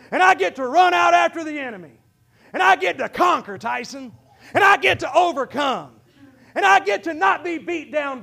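rising preacher's shout; preaching at full cry; building shout. Real, not acted.

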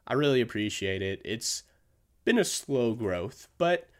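lip smacking between words. Real, not acted. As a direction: wet lip smacks on each phrase. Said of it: "I'm sorry for all the lip smacking".

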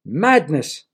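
loud scornful snarl. A narrator's reading. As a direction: snarl it in disgust. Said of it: "snarled the fourth young man".

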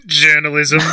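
clipping mic. Real, not acted. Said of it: "earache warning on the title".

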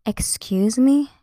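slow, disbelieving Excuse me; drawn-out indignant question; mock outrage. Real, not acted. Reacting to Taylor's tweet with mock disbelief.

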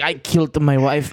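low mock confession; imitating the comedian. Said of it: "he does it like".

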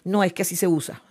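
a proud person insisting she's right; proud ego. Retold or imitated. Friend scolded for her lipstick, answering back with haughty pride. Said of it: "la soberbia, el ego".

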